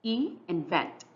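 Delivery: "E" and "vent" said as two separate syllables; split syllables. Shown as a demonstration. Teacher breaking a word into two syllables, "E" and "vent" said separately. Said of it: "We have here two syllables".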